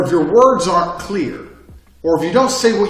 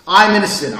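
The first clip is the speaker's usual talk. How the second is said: louder; 4 semitones higher, 6 dB louder than usual. Shown as a demonstration. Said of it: "They're different things".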